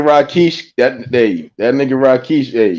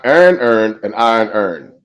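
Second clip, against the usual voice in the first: Baltimore accent; 6 semitones lower than usual. Real, not acted. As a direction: own Baltimore accent on request. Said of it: "Say it in your accent".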